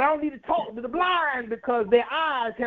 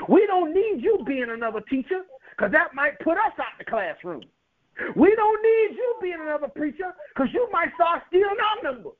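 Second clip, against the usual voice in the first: building fervor; 5 semitones higher than usual. Acted. Preacher building a rhetorical list.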